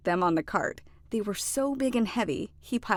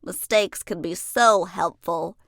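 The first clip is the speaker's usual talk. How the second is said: slow, happy and louder; happily; 5 dB louder than usual. Acted. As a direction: savor the lesson with a glad voice. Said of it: "he said happily".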